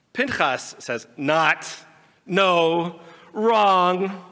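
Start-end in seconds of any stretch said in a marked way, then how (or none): 1.2-4.2 louder and louder, no no wrong; objecting. Acted. Pinchas contradicting Moti, rising objection. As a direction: cut him off, each word harder.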